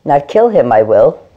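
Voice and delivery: a playful hint of Yoda talking to the cat. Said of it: "Be the Yoda that you are".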